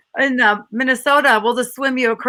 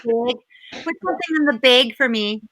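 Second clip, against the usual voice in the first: Minnesota accent. Shown as a demonstration. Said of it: "Or big".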